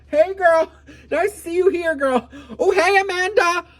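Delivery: high loud gushing hi to strangers, with a laugh; fake celebrity greeting. Waving at strangers, acting famous.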